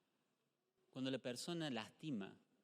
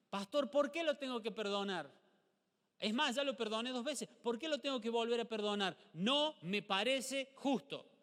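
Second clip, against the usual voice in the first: mock congregant; 7 semitones higher, 6 dB louder than usual. Voices congregant refusing to forgive.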